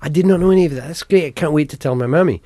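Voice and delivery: high, loud gushing; excited customer. Retold or imitated. Customer thrilled about her family name, excited gushing. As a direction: gush like a delighted customer. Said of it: "she was like".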